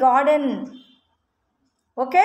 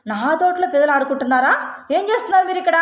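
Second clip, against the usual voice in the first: giant shouting; 3 semitones higher, faster than usual. Acted. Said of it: "giant గట్టిగా అరిచిందనమాట".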